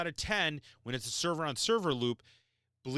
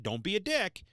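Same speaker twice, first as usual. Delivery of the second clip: blunt scolding; 6 semitones higher than usual. Real, not acted. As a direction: bark it straight at the users. Repeats the warning after "I said it.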